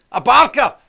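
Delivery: blurting the punchline through a laugh; loud laughing payoff. Real, not acted. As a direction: crack up on the last word. Punchline of his own joke.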